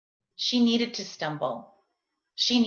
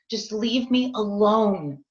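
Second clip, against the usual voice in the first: a mild mock yell, slow and drawn out; insisting to be left alone in a slow mock yell; retold yell, slower; 4 dB louder than usual. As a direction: drag each word out, still yelling. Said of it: "and I'm yelling".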